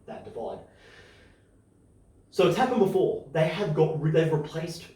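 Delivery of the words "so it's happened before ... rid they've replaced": excited. Real, not acted. Emphatic point about money.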